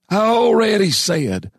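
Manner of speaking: put-on slow, high old-timer voice; harsh, gravelly old man. A narrator's reading. Old man answering the miner's challenge, harsh slow voice. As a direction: drag it out in a high, aged rasp. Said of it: "voice was harsh and gravelly".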